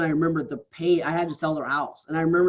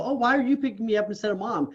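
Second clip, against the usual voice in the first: put-on higher childlike voice, a kid's question; 6 semitones higher than usual. Child asking dad at school pickup, higher kid voice. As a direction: lift the pitch like a puzzled child. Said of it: "they're picking their kid up at school".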